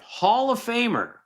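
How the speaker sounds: sing-song nudge toward the answer; high hint. Acted. Dad hinting quiz answer.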